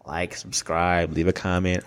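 low, slow, lightly mocking YouTuber recital; mock YouTuber plug. Viewer mimicking YouTubers who keep begging, mock plug. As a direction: drone softly through a mock channel plug. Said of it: "whenever you sit here and".

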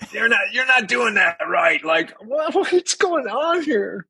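mock the old teacher correcting a drummer; imitating Freddie. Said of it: "And Freddie's going".

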